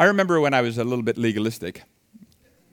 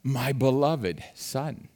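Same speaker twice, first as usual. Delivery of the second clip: soft, slow father's murmur; tender father; 2 semitones lower, 5 dB quieter, much slower than usual. Retold or imitated. Father gazing at his newborn baby, soft and tender. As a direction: coo it softly over the newborn. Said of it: "what does he say?".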